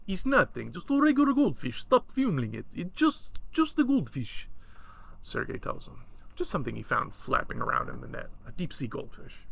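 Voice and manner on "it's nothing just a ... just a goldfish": pressured. Acted. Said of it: "this really pressures Sergei".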